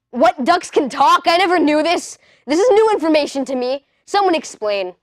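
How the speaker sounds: mock surprise. Retold surprise at talking duck.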